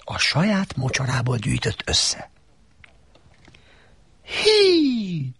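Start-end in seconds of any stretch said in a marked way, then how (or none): 4.2-5.3 high donkey bray of a greeting; donkey hee. A narrator's reading. Donkey greets Shrek with a bright donkey hee.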